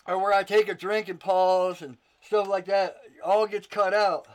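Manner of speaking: breathless, winded talking; out of breath. Real, not acted. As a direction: talk while short of breath. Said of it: "whew, I'm out of breath".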